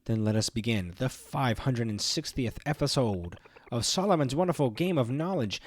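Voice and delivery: booming showman announcing his show; gloating villain host intro; grand show intro. Acted.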